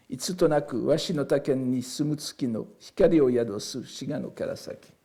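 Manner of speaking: classical Japanese verse read in connected phrases; poem recital in Japanese, fading at the close. Shown as a demonstration. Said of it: "je vous le lis donc d'abord en japonais".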